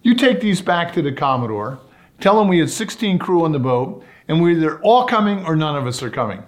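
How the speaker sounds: Ted's ultimatum. Retold or imitated. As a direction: lay down the ultimatum with a lifted voice. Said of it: "Ted says to this guy".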